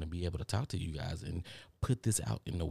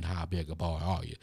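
Roy D. Mercer impression. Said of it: "that guy, Roy D. Mercer".

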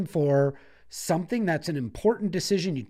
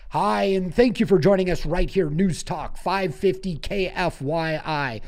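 talk show host. Shown as a demonstration. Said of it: "flex my talk show host voice".

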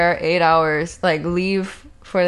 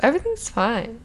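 calm dog voice; 4 semitones higher than usual. Pretend. Voicing their chill dog's soothing presence, mock calm. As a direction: speak lightly for a calming, chill dog. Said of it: "He's a very calming presence".

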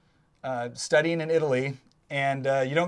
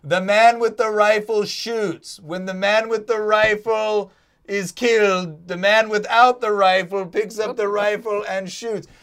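mock officer shout; 4 semitones higher, 4 dB louder, slower than usual. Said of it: "Russian officer shouting".

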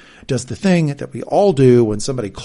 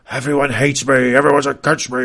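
louder, hammed-up sith Emperor voice; 7 dB louder than usual. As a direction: snarl it like a movie villain emperor. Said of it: "doesn't he sound like the Emperor here".

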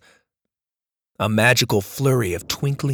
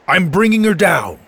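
put-on old grandpa voice; 6 semitones higher, 6 dB louder than usual.

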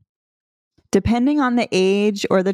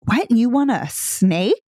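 playful mishearing; 4 semitones higher, slower than usual. Retold or imitated. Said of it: "So I might say something playfully like".

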